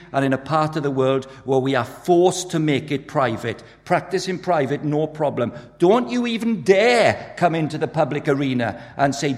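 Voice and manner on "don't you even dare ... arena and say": hammered-out acted outrage; indignant warning. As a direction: forbid it as an outraged objector. Voicing society forbidding public faith.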